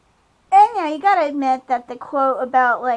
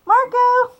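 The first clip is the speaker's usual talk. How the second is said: hammed-up angry yell at Marco; mock outraged yell; 4 dB louder than usual. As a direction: call out Marco in mock alarm. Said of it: "the guy will care and be like".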